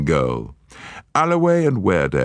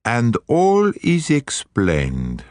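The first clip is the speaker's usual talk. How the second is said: genial; 7 semitones higher, much slower than usual. A narrator's reading. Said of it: "cried Poirot genially".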